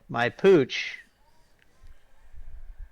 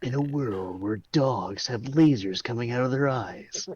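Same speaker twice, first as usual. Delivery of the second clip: movie trailer voice. Pretend.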